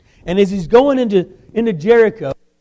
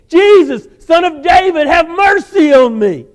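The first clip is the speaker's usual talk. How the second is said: loud, high, slow desperate cry; screaming out; 9 semitones higher, 7 dB louder, slower than usual. Acted. Blind man screaming to Jesus passing by. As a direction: scream it as loud as you can. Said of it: "he starts screaming out as loud as he can".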